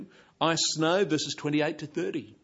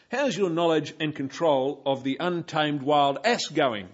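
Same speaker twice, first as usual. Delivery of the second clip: sarcastic; 5 dB louder than usual. Pretend. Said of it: "tone of sarcasm".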